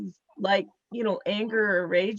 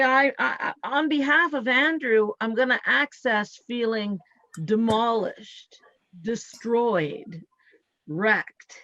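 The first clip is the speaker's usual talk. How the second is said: guided affirmation; slower than usual. Shown as a demonstration. Healer guiding the client through an affirmation, measured. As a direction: lead the words for them to repeat. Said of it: "So say".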